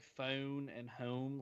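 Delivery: slowly demonstrated Philadelphia "phone" and "home"; Philadelphia accent. Shown as a demonstration. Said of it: "Is it like that Philadelphia".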